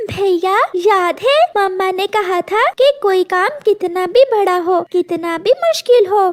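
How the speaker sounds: a hint of a young chick's voice, hopeful and determined; a small bird rousing his brother to save mama; lightly voiced brave chick. Son chick rallies brother. (हल्की सी बच्चे की आवाज़, हिम्मत भरी)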